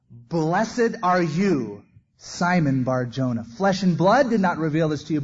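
slow, loud solemn blessing; loud, drawn-out declaration of blessing; solemn proclamation. Acted. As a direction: pronounce the blessing like Jesus. Jesus blesses Peter, proclaimed.

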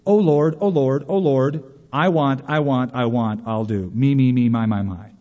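a hint of whiny self-centred prayer; mock Jonah prayer. Preacher imitating Jonah's selfish prayer, lightly whiny. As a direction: pray greedily, half-mocking. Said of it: "What Jonah said".

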